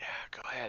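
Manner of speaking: whispered, hushed voice. Voicing a character answering a radio call: hushed voice. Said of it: "I'll use kind of a hushed voice".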